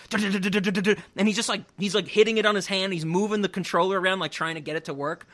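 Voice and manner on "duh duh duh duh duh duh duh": imitating frantic clicking.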